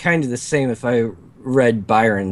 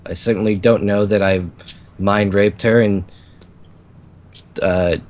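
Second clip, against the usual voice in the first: succubus voice; 3 semitones lower than usual. Acted. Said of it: "succubus voice".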